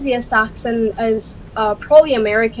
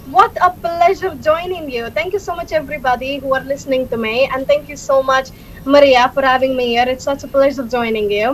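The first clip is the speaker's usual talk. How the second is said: Scottish accent. Shown as a demonstration. Guest thanks the host and listeners, Scottish accent.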